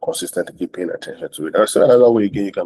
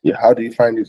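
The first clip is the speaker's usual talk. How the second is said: higher, eager, curious voice; friendly interest demo; 5 semitones higher than usual. Shown as a demonstration. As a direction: sound delighted about their book. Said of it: "You can initiate that".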